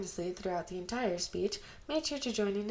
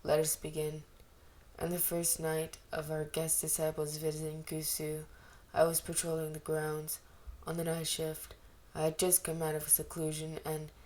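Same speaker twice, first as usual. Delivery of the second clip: a touch of grandeur, voiced a little low; lightly voiced stately leader holding court; 3 semitones lower than usual. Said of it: "Lan Zhan continued grandly".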